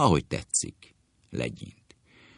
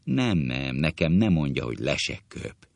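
sweet sulking; 2 semitones lower than usual. Acted. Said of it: "kedves duzzogással".

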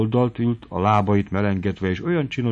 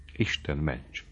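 protesting; 5 semitones lower, 11 dB quieter, slower than usual. A narrator's reading. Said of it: "ellenkezett Noszti".

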